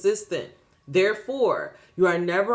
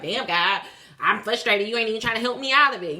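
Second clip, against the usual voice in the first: mock complaint to God; faster than usual. Voicing someone mad at God.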